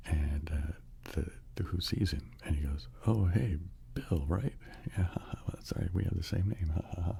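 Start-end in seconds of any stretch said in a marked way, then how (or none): 3.1-7.2 lightly voiced chummy hello, pitched up; awkward friendly greeting. One Bill runs into the other, awkward friendly greeting. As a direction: greet him with a small put-on chuckle.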